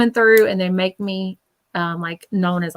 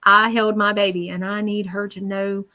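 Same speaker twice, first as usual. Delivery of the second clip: sincere spirit message. Retold or imitated. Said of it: "Exactly what he says".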